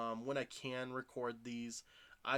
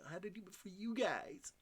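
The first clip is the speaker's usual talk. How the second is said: mock dramatic voice; 8 semitones higher than usual. Playful dramatic repeat.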